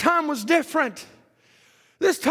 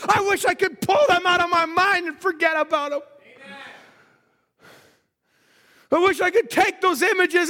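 a touch of desperate shouted plea; desperate prayer; 5 semitones higher than usual. Acted. Amram beating his breast, begging God, desperate shouting. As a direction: cry out to God in anguish. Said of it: "began to get desperate in his heart".

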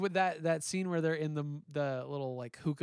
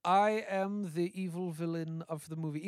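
mustache twirling villain. Retold or imitated. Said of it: "mustache twirling".

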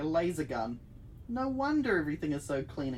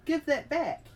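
high, loud demand; shouting; 11 semitones higher, 5 dB louder than usual. A narrator's reading. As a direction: shout it after the robot. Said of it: "you shout".

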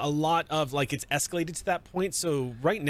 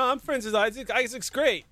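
The speaker's voice; 9 semitones higher than usual. Acted.

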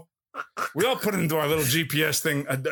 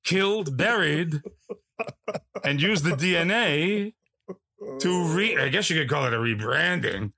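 lightly voiced Pacino swagger; mild Pacino impression. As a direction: ham up the self-love as Pacino. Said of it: "Al Pacino".

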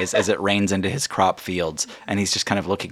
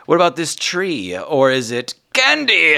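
genie voice; 7 semitones higher, 5 dB louder than usual. Acted. Genie shows tricks.

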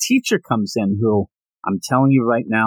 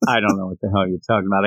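lower, fast baffled brush-off; baffled retort; 6 semitones lower, much faster than usual. Retold or imitated. Viewer at the flowery subtitle, fast and lower. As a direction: rattle it off, confused and dismissive. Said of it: "I'm like".

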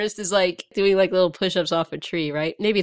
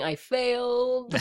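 slow and soft, deflated; sad; 4 semitones higher, 5 dB quieter, much slower than usual. Retold or imitated. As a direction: mutter it in defeat. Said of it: "his way of saying".

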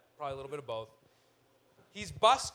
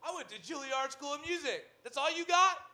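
higher, louder, sneering voice of a showy street musician; snooty busker rat; 10 semitones higher, 9 dB louder than usual. Retold or imitated. Rat busker scoffs at the passerby's coin, indignant and sneering. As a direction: scoff at the tiny tip, climbing to an indignant peak. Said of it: "and he goes".

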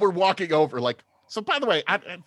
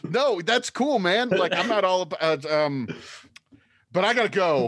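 Minotaur bro voice; 2 semitones higher than usual. Acted. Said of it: "that's my accent when I talk to Minotaurs".

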